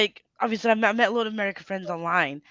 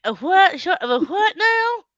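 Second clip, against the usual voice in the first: high, louder bewildered questioning; baffled mock query; 8 semitones higher, 5 dB louder, slower than usual. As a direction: imitate a friend utterly thrown by the phrase. Retells American friend's baffled reply.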